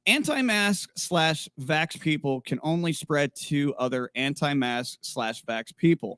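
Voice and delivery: reading comment aloud. Real, not acted. Host reads a viewer's comment to listeners, measured read-aloud. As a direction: read it out deliberately, word by word.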